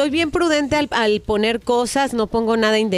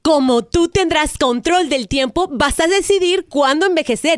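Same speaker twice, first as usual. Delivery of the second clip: telemarketer voice. Acted. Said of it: "es una broma telefónica".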